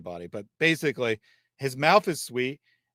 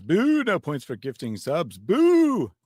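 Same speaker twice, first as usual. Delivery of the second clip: mock booing; 3 semitones higher, slower than usual. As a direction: read out a playful, drawn-out boo. Reads out viewer's booing message.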